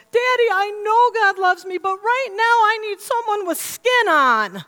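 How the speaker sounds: put-on high, loud little-girl yell; child yelling back. Little redhead daughter yells back at dad, loud imitated holler. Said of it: "she yells bad, back".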